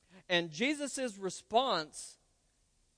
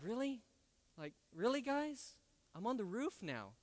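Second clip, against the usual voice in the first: exasperated; 4 semitones higher, 9 dB quieter than usual. Retold or imitated. Paralyzed man lowered through roof.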